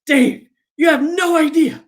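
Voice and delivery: high, laughing through it; laughing nervously. Retold or imitated. Mike telling Dave he's nervous, laughing high voice.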